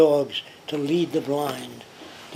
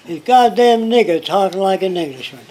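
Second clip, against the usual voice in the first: higher, much louder mock outburst; retold indignant outburst; 5 semitones higher, 9 dB louder than usual. Klansman reacting to the recorded voice, mock indignant outburst. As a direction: imitate a Klansman blurting in disbelief.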